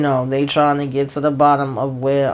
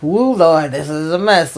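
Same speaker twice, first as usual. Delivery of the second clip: exasperated exclaim; 3 dB louder than usual. Real, not acted. Viewer exclaiming at the mess.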